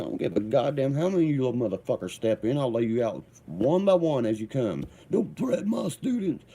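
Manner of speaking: retold coach yelling, rising to a high shriek; mock angry coach. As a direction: act out the coach losing it. Coach threatening him, retold quarrel.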